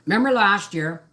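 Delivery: talking through a mouthful of food; words round a bite of breakfast; mouth full. Real, not acted. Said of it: "I'm sorry for talking with food in my mouth".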